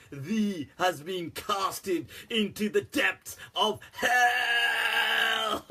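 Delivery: mock preacher, slowing into a wail; fervent zealot intensity. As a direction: ham up a fire and brimstone zealot. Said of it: "how the not to do version".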